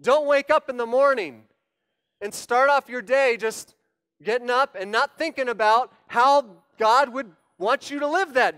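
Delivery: forceful self-directed sermon rebuke; yelling at himself. Shown as a demonstration. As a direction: scold yourself from the pulpit. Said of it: "I'm gonna yell at myself".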